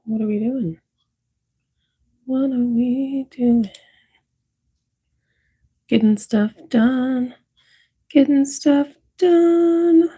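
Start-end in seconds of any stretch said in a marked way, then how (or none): 2.2-3.7 higher, slower playful repeat of "What are we doing?"; drawn-out sing-song question. Pretend. Streamer repeating her own question to chat, slow and sing-song. 8.1-10.1 much higher, slow squeaky "Getting stuff done."; high sing-song. Pretend. Streamer answering her own question to chat in a high, slow squeak.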